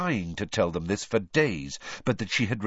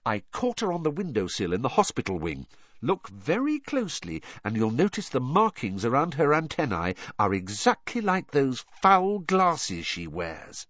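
lightly voiced, higher-pitched know-it-all girl; a hint of pleased explainer, pitched up; Hermione; 5 semitones higher than usual. Hermione showing the captured beetle, lightly voiced and pleased.

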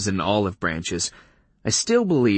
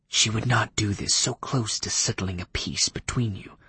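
vampire Leif voice; 4 dB quieter than usual. Acted. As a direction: speak like a cool, stiff old vampire.

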